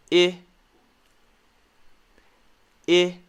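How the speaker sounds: "I" as "ih" in sit; brief isolated "ih", not "eye"; short I sound. Shown as a demonstration. Teacher reviewing short I for learners, isolated "ih". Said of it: "We also have the I sound".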